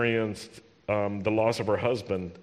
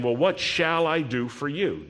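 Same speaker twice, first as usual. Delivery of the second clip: earnest, genuinely offering help; sincere offer; 4 semitones higher than usual. Shown as a demonstration. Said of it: "I think he's saying".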